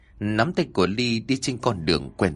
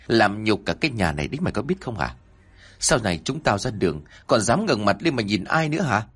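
a mild, fast, grinding father's scolding; understated seething father; faster than usual. Acted. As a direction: hold back rage, push words out fast. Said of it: "gằn giọng nói". (giọng người cha gằn giọng, trách mắng nhanh nhẹ)

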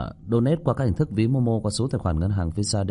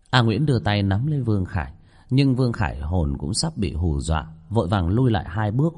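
measured ghost-story reading; story narration. A narrator's reading. Narrator telling listeners of an eerie kitchen, story narration. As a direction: read the chapter out to listeners.

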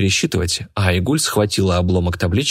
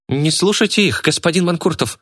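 shouted; 9 semitones higher than usual. A narrator's reading. Girl shouts to the auctioneer not to listen to them. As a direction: cry out to stop him believing them. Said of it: "крикнула она".

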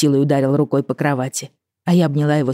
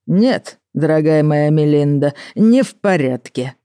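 put-on drunk, slow slurring; slurred speech; 3 dB louder, slower than usual. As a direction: drag the words out, tongue-tied and drunk. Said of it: "заплетающимся языком".

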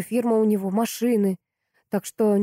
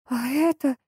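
fawning; 7 semitones higher, slower than usual. A narrator's reading. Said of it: "залебезила Анна".

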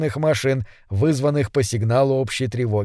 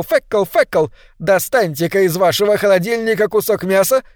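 roaring; 5 semitones higher than usual. A narrator's reading. Loudspeakers roar threats at startled residents. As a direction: roar the brand at the listener. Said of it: "Они ревели".

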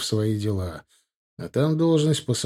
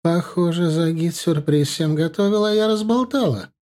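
put-on higher, chatty older woman's voice; older woman on the phone; 6 semitones higher than usual. A narrator's reading. Dilara asks Pasha to arrange a car, higher older woman's voice. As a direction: voice the witch-grandma calmly arranging her trip. Dilara realizes she spilled.

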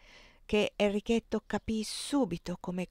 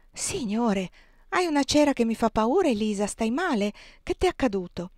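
alarmed concern; 3 semitones higher, 4 dB louder than usual. Acted. Aunt Clo alarmed at Elisa.

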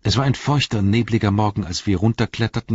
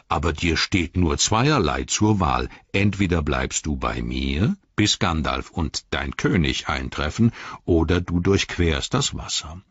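Treebeard; 4 semitones lower than usual. Acted. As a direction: let the words rumble out low and unhurried. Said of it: "sagte Baumbart".

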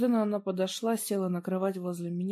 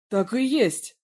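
loud, higher bellow; roaring; 3 semitones higher, 6 dB louder, slower than usual. A narrator's reading. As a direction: roar it at him. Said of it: "взревел".

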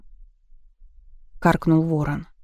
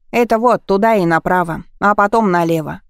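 put-on loud teenage boy; 3 semitones higher, 6 dB louder than usual. Boy giving directions loudly.

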